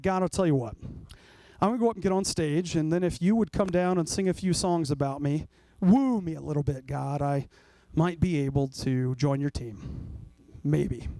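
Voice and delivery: lightly voiced smug believer weighing his worth; smug bargaining.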